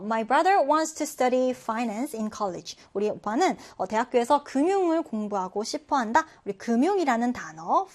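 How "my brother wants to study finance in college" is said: very slow, clear read for learners; slow model sentence. Shown as a demonstration. Teacher reading the example sentence slowly for students. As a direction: read each word out slowly. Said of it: "자, 예문 보면요".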